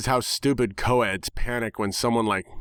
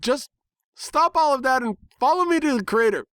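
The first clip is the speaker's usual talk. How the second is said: much higher, demanding pony order; bossy tomboy pony; 4 dB louder than usual. Acted. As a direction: order them along like a brash cartoon pony. Rainbow Dash orders in character.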